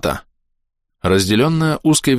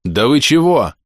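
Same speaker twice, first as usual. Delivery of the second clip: barking retort; 6 semitones higher, 3 dB louder, slower than usual. A narrator's reading. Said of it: "рявкнул я".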